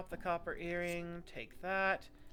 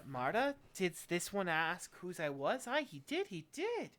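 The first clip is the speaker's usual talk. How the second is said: self-talking seamstress; 2 semitones higher than usual. Acted.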